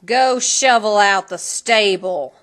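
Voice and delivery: hissed order. A narrator's reading. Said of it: "hissed the stepmother".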